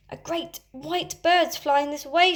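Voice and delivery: put-on high, loud, slow boyish shout. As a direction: call out the sighting to the others. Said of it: "shouted Nibs".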